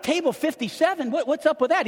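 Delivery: "Table fifty-seven?" asked high and incredulous, breaking into a laugh. Retold or imitated. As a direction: repeat it back in disbelief. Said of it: "I'm like".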